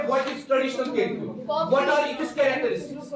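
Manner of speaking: slow, quizzing voice of an examiner who wants to trip students up; mock examiner drawing out a trick question; tricky examiner question. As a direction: pose it like a sly examiner, half laughing. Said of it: "कभी कभार आपको examiner confuse करता है".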